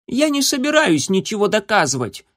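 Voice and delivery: высокий громкий выкрик; котёнок заносчиво кричит; дерзкий крик котёнка. A narrator's reading. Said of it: "крикнул он". (котёнок кричит заносчиво)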